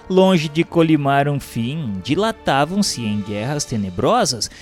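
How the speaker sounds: ordinary talk, nothing marked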